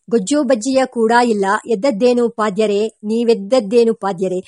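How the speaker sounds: lightly chanted mock challenge in measured beats; brahmins' rhyming protest, mildly performed; rhythmic verse recital. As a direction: recite it as a rhyming taunt, phrase by phrase.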